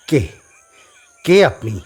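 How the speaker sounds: startled loud who-are-you; frightened. A narrator's reading. Rahul, terrified, confronts the sadhu. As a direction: gasp it out in fear. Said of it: "Rahul ভয় পায়".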